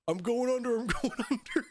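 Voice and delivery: high, laughing mock panic. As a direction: squeal it through laughter. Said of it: "I just hear Dan in the back".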